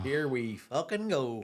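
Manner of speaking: slow weary mock resignation; weary sigh. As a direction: drag it out, fed up. Weary reaction to heckler.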